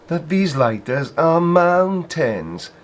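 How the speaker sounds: slow high mock of his voice. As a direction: parrot him slowly and snidely. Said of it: "this guy's voice".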